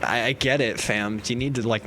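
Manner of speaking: low, soft, placating; talking sense. Retold or imitated. Friend placating ranting student, low and calm. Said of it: "you would talk sense".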